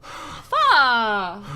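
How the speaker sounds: loud, drawn-out acted curse; winded frustrated shout. Character after sprinting home, winded frustrated shout. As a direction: let the swear burst out on a long breath.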